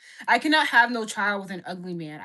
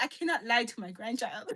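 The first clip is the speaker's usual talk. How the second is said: put-on Nigerian accent; 5 dB quieter than usual. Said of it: "Your dad sounds Nigerian".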